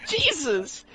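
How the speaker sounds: high, loud incredulous protest; appalled scolding. Retold or imitated. Reader scolding Wonder Woman for her insult, appalled. Mock scolding a shocking character.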